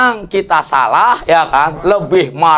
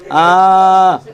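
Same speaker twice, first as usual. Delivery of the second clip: arrogant boast; 2 semitones higher than usual. Acted. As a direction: brag that you can buy anyone. Arrogant rich man boasting.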